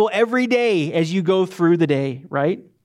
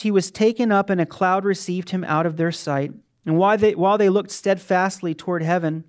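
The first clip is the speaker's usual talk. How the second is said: scripture reading. Acted. Reads scripture passage aloud.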